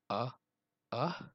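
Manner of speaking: soft, halting "uh... uh"; small gasps before a pretend sneeze; sneeze build-up. A narrator's reading. Elephant about to sneeze, soft halting build-up. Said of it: "went Elephant".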